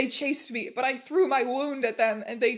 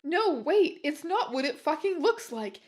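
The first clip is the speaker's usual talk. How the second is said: shouted plea; 4 semitones higher than usual. Acted. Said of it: "he shouted".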